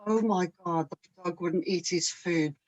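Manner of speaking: soft, fast sarcastic coo; mock sympathy. Wife teasing husband over the dog, mock sympathy. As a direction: tease him with fake pity. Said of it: "And then I go".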